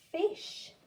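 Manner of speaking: whispered sh-ish sound; segmented sounding out. Shown as a demonstration. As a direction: sound it out for the child. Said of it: "let's do it together".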